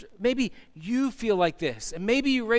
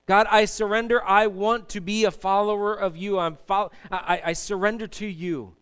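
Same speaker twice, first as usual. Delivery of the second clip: prayer of surrender; 4 dB louder than usual. Retold or imitated. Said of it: "we come and we say".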